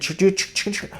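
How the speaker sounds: rapid transformer unfolding noise; imitated mechanical clicking. Showing helicopter blades unfolding from a phone, imitated mechanical clicking. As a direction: chatter like little parts popping out.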